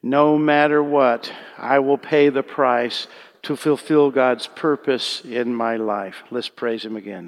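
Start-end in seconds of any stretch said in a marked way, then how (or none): 0.0-6.2 slow, loud and solemn declaration; slow, loud declaration leading the congregation in conviction. Shown as a demonstration. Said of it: "Let's just say it with conviction".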